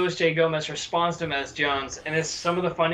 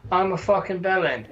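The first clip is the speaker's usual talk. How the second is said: mock Birmingham accent. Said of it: "he's Leon Edwards because he's like".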